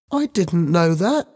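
put-on high-pitched anxious boy; frightened. A narrator's reading. Ben answers Helen's shouting, frightened. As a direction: plead ignorance in a high, scared voice.

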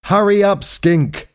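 high-pitched, hurrying shout; urgent call. A narrator's reading. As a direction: call out high to chivvy a crewmate. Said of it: "Hal called".

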